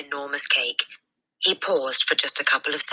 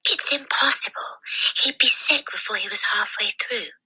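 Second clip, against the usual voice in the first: hushed, higher whisper, sure of herself; 7 semitones higher than usual. A narrator's reading. Girl whispering back to her friend in the hall, hushed whisper. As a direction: whisper a grim prediction to a friend. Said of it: "Lavender whispered back".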